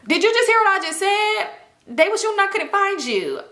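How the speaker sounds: high, exasperated mock wail; hammed-up tearful protest; crying. Crying girl repeating herself to her cousin, acted high wail. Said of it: "now I'm crying".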